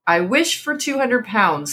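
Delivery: slow and deliberate, each word clear; distinctly. Acted. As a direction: spell the wish out slowly. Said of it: "said the old man distinctly".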